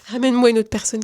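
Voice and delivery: said again through a laugh; retelling her prayer to the viewers, laughing. Real, not acted. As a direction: laugh as you repeat the prayer.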